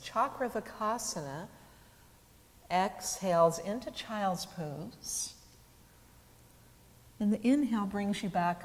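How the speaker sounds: calm teacher cueing movement with the breath; unhurried cues, pauses left for each breath; guided yoga practice. Acted.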